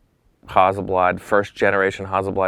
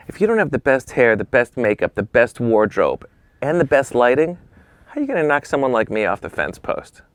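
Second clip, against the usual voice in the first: lightly imitated thick accent, higher at start and end; Gilles Bensimon's thick accent; 4 semitones higher than usual. Famous photographer lecturing a beginner, in a thick accent. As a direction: lecture in a put-on thick accent, spacing out the list. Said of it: "with his thick accent".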